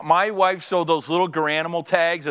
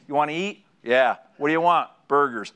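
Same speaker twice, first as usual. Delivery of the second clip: terse guy talk. Retold or imitated. Two men's terse truck conversation.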